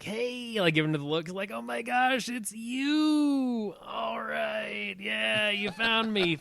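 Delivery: put-on high, weary girl's voice, caught out; annoyed girl. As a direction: play a tired older girl who's been found. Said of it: "Lily was like".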